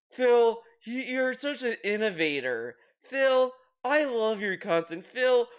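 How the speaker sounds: lightly voiced sycophantic chatter, calling his name up high; butter him up like a fawning viewer; a hint of a fan heaping praise; mock gushing fan. Chat flattering Phil nonstop.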